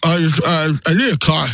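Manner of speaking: muffled by something in mouth; talking around a mouthful; mouth full. Real, not acted. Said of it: "I have something in my mouth".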